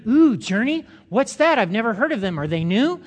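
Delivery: intrigued churchgoer; curious surprise. Shown as a demonstration. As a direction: perk up at a new church name. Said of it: "use the phrase in several sentences".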